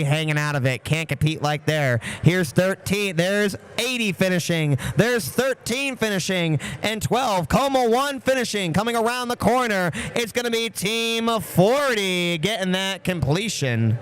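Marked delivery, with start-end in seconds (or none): 2.2-14.0 excited race call. Real, not acted. Calling cars over finish line.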